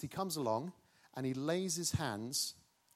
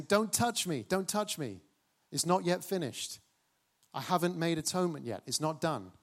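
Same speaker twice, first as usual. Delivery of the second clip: urgent warning; 4 semitones higher, 5 dB louder than usual. Acted. High priest warns crowd off.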